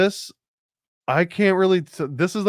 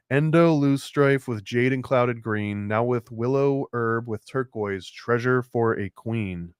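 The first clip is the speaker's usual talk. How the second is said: slow, chanted riddle reading like a spell; incantation reading. Shown as a demonstration. Reading a riddle aloud from the book, slow spell-like chant. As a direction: intone it slowly like casting a spell. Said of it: "are we casting a spell".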